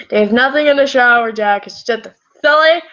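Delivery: character voice. Acted. Jack tells his boyfriend the shower is empty, character voice. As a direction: read it as Jack talking Mark round. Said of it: "Yes, I'm reading in that voice".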